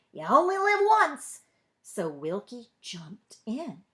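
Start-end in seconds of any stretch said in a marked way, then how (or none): 0.1-1.4 put-on high, eager old-timer's push; Uncle Julius urging. A narrator's reading. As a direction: egg the kid on, much higher. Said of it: "he could hear Uncle Julius saying".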